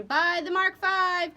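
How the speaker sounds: rumbling answer. Acted. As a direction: rumble the sounding back. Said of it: "Kenzie rumbled answer".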